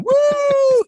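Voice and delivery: very high, loud whoop; joyful high yell; whooping woo. Retold or imitated. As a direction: whoop like swinging off a building. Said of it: "hear 'em going".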